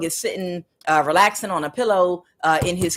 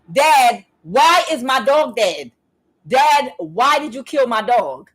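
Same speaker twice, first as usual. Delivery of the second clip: higher, drawn-out accusing plea; upset confrontation; 5 semitones higher, 4 dB louder, slower than usual. Retold or imitated. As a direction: confront dad in a raised, slow voice. Retold confrontation with her father.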